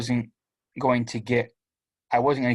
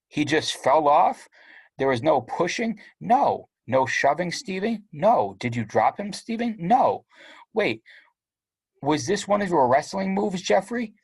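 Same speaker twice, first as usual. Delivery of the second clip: dramatic interrogating parents; 5 semitones higher than usual. Acted. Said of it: "talk in these dramatic capital letters".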